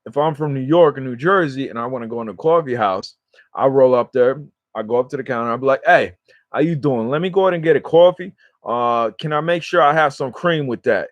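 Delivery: laid-on New York-New Jersey accent; heavy New York-New Jersey accent. Shown as a demonstration. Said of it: "I'll lay it on heavy".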